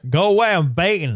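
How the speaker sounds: muffled through a pen in the mouth; garbled, mouth blocked by a pen; pen in teeth. Shown as a demonstration. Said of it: "I gotta put a stick in my eye".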